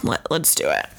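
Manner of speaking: hushed whisper to the listeners. Real, not acted. Whispering to listeners about taking shots. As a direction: lean in and whisper the plan. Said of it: "whispered aside".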